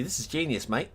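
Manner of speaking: a slight Aussie twang on mate; accidental Aussie accent. Real, not acted. Praising Snoopy's genius find, slight Aussie accent. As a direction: let a hint of Australian slip in. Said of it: "Almost said mate with the Aussie accent".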